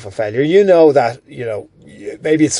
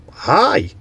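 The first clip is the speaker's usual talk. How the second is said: bright cheerful greeting, pitched up; happy hi; 4 semitones higher than usual. Shown as a demonstration. Demoing a happy hello to show tone. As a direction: greet like you're glad to see them. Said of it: "in a really happy way".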